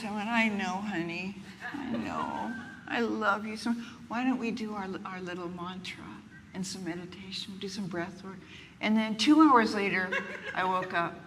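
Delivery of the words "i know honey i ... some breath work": soft, tender self-soothing; soothing self-talk. Retold or imitated. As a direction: comfort yourself gently, fading quieter. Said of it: "I went like this".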